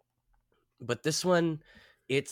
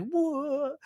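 high startled what. Retold or imitated. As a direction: squeak it out confused. Face 'says' what, high.

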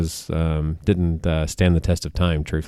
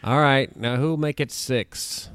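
auctioneer; 6 semitones higher, slower than usual. Retold or imitated. Pirates auctioneer line quoted.

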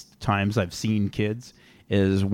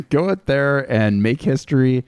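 louder drill-sergeant coach orders; barking gym coach; 3 semitones higher, 5 dB louder than usual. Acted. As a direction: bark orders at the trainee.

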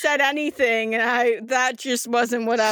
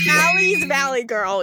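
light mock Valley Girl; Valley Girl accent; 3 semitones higher than usual. Game master teasing the player, mock Valley Girl accent. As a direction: tease with a Valley Girl lilt. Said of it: "That's just like".

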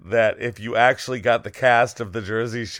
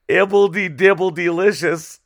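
wizard catchphrase; 5 semitones higher, 4 dB louder than usual. Pretend. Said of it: "It's fun to say".

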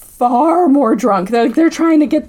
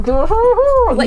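laughing; 9 semitones higher than usual. Real, not acted. Laughing mid-sentence.

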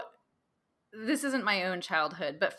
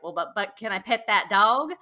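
put-on kid's Southern twang; 6 dB louder than usual. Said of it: "he's got quite the accent".

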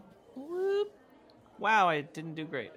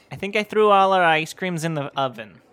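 loud confession; 3 semitones higher, 12 dB louder than usual. Acted. Character admits kitchen blunder.

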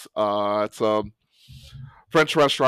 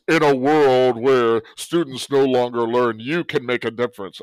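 movie trailer voice; 3 dB louder than usual. Acted. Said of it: "use my Don LaFontaine, the old, um, movie trailer voice".

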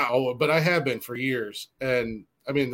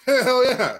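high, loud excited whoop; excited yell; 12 semitones higher, 6 dB louder than usual. Retold or imitated. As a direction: shout it out, pumped up. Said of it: "I was like".

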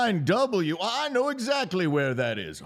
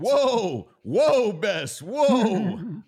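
reining in a horse, loud; whoa, calling out to the mare; 4 dB louder, much slower than usual. Acted. Rider reins in his horse.

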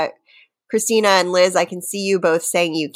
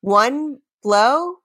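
1 dramatic reading; 6 semitones higher than usual. Shown as a demonstration. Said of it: "just straight reading, not singing".

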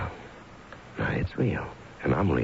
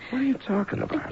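sharp, much higher outburst; husband flaring at his wife; angry disbelief. Acted. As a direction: demand an answer, stung. Husband rebuffed at bedtime.

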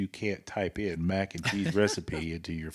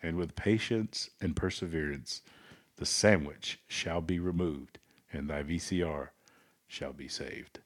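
pastor voice. Pretend. Co-host finishes sandwich verse, mock pastor voice falling to solemn close. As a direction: preach it, then settle solemnly. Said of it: "do it in your best pastor voice".

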